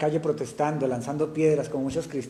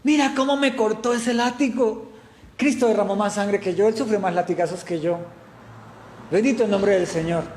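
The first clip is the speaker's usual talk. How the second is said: joyful; 4 semitones higher than usual. Pretend.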